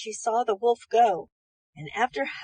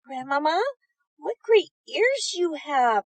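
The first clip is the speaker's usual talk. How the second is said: put-on little girl voice; 5 semitones higher, 4 dB louder than usual. A narrator's reading. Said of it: "said Red Riding Hood".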